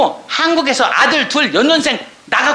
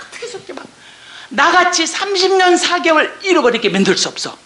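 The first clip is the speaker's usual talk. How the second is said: normal talking voice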